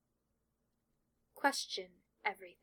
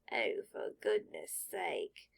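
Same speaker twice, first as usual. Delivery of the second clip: much lower, slow, fed-up hat; exasperated sorting hat; 9 semitones lower, slower than usual. Acted. Sorting hat gives up on Draco's tangents, low and fed up. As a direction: sigh it out, giving up.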